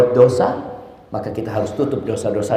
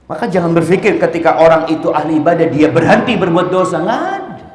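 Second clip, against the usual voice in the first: louder preaching, rising to a high exclamation; emphatic preaching; 5 semitones higher, 6 dB louder than usual. Real, not acted. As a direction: preach it forcefully to the crowd.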